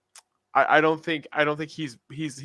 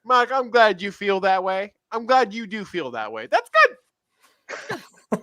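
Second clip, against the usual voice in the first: higher, mock patronising boss; Jerry impression; 8 semitones higher, 4 dB louder, slower than usual. Owner condescending to his coach in a raised mock voice. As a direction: pat the coach on the head, mockingly. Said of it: "Seinfeld voice".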